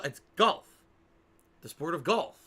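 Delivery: "golf" as one plain syllable; correct "golf" pronunciation. Shown as a demonstration. Streamer checking the right way with viewers, one-syllable "golf". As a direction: say "golf" simply, rising at the end. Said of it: "It's not golf".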